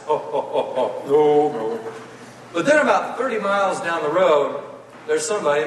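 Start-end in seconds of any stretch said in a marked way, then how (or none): 0.1-1.9 laughing groan. Retold or imitated. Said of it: "And everybody laughs".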